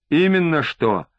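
mild emphasis on "Именно что"; emphatic. A narrator's reading. Лосев agreeing pointedly with Бобриков, "Именно что" lightly stressed. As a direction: lean a little on "Именно что". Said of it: "с ударением произнёс Лосев".

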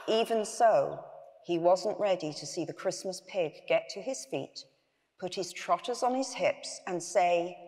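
measured read-aloud storytelling; story narration. A narrator's reading. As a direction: read the bedtime tale to an audience.

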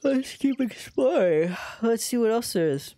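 high, stretched-out words through a yawn. Real, not acted. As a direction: talk while yawning. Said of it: "Sorry for yawning right into mic".

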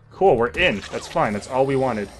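a hint of cheerful zombie quote; lightly voiced zombies. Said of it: "are just like".

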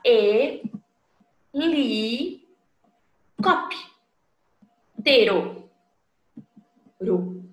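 "E, li, cop, tero" split into separate spoken syllables with pauses; teacher breaking "helicóptero" into syllables for children. Shown as a demonstration. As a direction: spell out "helicóptero" one beat at a time. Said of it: "eu abro a boca para falar".

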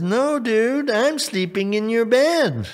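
high, cheeky frog voice; acted high-pitched frog demand; insistent frog. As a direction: announce it high, brooking no refusal.

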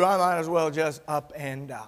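whispered hopeless complaint; despairing whisper. Retold or imitated. Elijah under the juniper tree whispers his wish to die. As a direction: let it fall away into a breathy whisper.

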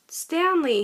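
high, loud happy cheer of a name. Acted. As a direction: friends cheer at his return. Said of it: "his friends cheered".

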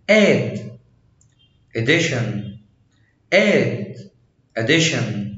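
"add" and "addition" with the double d pressed. Shown as a demonstration. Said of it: "بنضغطه".

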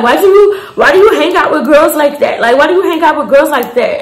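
put-on apologetic try at a Nigerian man's accent; imitating an African accent. Nigel judging her friend, in an imitated African accent. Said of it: "Let me try".

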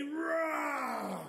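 long, falling "roar"; first, smaller dinosaur roar. Shown as a demonstration. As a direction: draw out ROAR like a playful dinosaur. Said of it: "gonna need a bigger roar".

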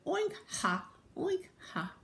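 high oinking ha; laughing pigs. Acted. Pigs waking up with a laugh, high oink-laughs. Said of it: "woke up with a laugh".

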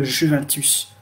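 "Juventus" with a French zh and French u; French pronunciation. Shown as a demonstration. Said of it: "Vous allez le lire comment?".

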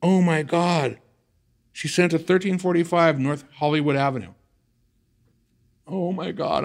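high, loud horrified disbelief; reliving panic. Retold or imitated. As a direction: relive the shock, voice up and strained. Reliving the disaster.

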